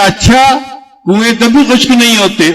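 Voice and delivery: high, rising astonished اچھا; wife acting amazed to lead her husband on, surprised; surprised question. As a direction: sound amazed that wells never dry.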